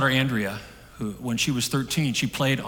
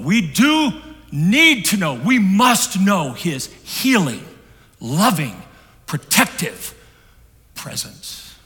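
much higher and louder, slow, over music; impassioned preaching; 8 semitones higher, 8 dB louder, much slower than usual. Real, not acted. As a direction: cry out "healing, loving, protective presence" with rising fervour. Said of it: "preacher sings out the counselor's words".

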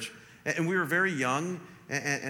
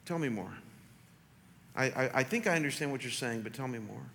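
calm, patient; 3 semitones lower, 4 dB quieter than usual. Retold or imitated. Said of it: "I said to her right then".

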